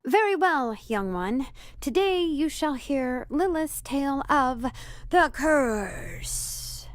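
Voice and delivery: lofty, slow tale-teller; grand storyteller voice. Pretend. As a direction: intone it like an ancient legend. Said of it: "Okay, fine. You're no fun".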